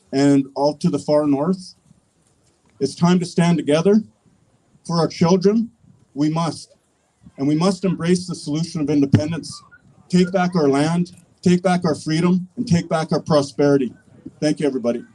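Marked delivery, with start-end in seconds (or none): 2.8-13.9 fervent defiant rallying cry. Acted. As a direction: build the crowd up to a cheer.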